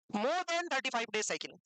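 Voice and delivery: very slow, word by word; slow definition. Real, not acted. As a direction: spell out the definition slowly for a class. Teacher gives a definition slowly. (धीरे-धीरे, शब्द-दर-शब्द परिभाषा)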